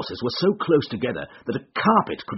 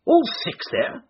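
high, breathy anxious question; agitated. A narrator's reading. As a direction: gasp it out anxiously. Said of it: "cried the Colonel in great agitation".

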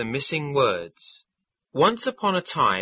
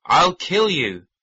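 higher, louder furious roar; angry tiger shout; 5 semitones higher, 6 dB louder than usual. A narrator's reading. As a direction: bellow it at the enemy.

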